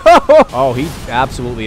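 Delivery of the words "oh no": high, loud "oh no"; drawn-out cry of dismay; dismayed wail. Real, not acted. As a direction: wail as the allies go down. Summoned allies hit by fire.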